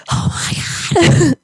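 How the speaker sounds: high breathy panicked gasp of Oh my God, slow; panicked cry. Retold or imitated. Telling her cohost how she panicked at the dog, a mock terrified cry. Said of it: "panicked and screamed".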